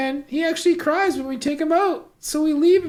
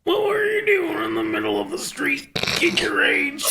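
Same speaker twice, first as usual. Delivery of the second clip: whispered aside. Acted.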